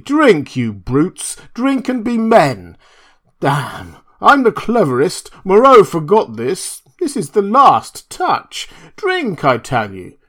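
high, loud manic shouting; drunken frenzy. A narrator's reading. Montgomery rallying the beast people with brandy, high and loud. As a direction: gloat wildly at the beasts. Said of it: "cried Montgomery".

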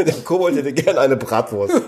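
giggling through the line; laughing. Real, not acted. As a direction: laugh while saying it. Joking guess, laughing.

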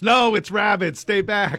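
high mock yell of warning; imitated yelling. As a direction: imitate a woman yelling to neighbors. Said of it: "she was yelling at the neighbors".

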